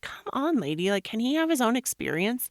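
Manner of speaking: high-pitched mock exasperation at the nurse; exasperated protest. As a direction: push back at the blunt nurse, incredulous. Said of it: "And I was like".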